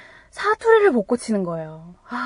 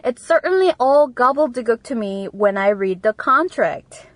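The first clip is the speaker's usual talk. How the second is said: slow, careful teacher read; deliberate classroom dictation; slow model reading; much slower than usual. Shown as a demonstration. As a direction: read it out slowly for learners. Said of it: "다시 한번 알려드리겠습니다".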